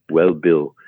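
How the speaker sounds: put-on halting director with a Finnish accent; deliberate, lightly imitated Finnish accent. Director breaking awkward news to actor at costume fitting, Finnish accent. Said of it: "in his Finnish accent".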